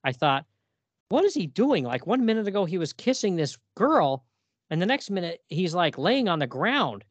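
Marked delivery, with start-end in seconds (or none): 1.1-7.0 surprised disbelief. Retold or imitated. Reacting to a confusing comic panel.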